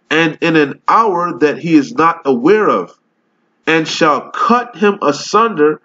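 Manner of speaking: slow, solemn King James recital; scripture reading. Acted. Street preacher reads the Bible to his video audience, solemn slow recital. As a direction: read the verse like preaching it from the pulpit.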